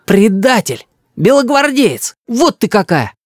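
high-pitched denunciation; accusing child. A narrator's reading. Boy denounces his grandmother, accusing. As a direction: hurl each accusation up high.

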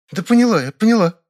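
high, loud, exasperated; impatient snort. A narrator's reading. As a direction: brush him off. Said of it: "фыркнула Валентина".

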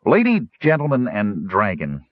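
smooth, formal gnome address. Acted. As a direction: announce it smoothly and politely. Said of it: "Stutz said smoothly".

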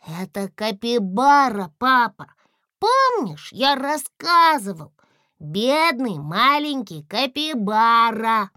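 high, loud pleading tone; little one vouching for his friend, high; eager child. A narrator's reading. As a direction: plead pity for the poor little capybara.

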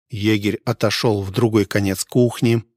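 ordinary delivery, nothing marked

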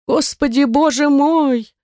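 high, drawn-out fervent lament; impassioned cobbler bewailing his lot. A narrator's reading. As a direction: cry out to heaven, pitched high. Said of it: "С жаром продолжал башмачник".

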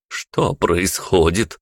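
put-on slow, anxious old woman's question; worried question. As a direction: ask with mild alarm. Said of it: "взволнованно произнесла старушка". (взволнованный вопрос старушки)

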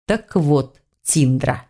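"Так вот, Тиндра" with weighty, deliberate pressure; pointed emphasis. A narrator's reading. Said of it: "произнёс с нажимом целитель". («Так вот, Тиндра» — с нажимом)

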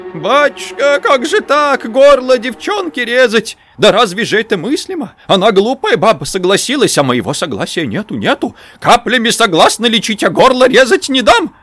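put-on high, loud whining old woman; whining granny. A narrator's reading. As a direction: wail it as a frantic peasant granny. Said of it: "и голос заныл". (ноющий голос бабки)

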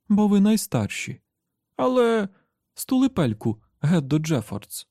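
put-on high, sharp scolding of a child; cross mother. A narrator's reading. Mother shutting up her whining daughter, cross.

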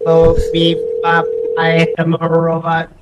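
flat beeping robot voice. Acted. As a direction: beep it out like a toy robot. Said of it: "I need you to be the robot".

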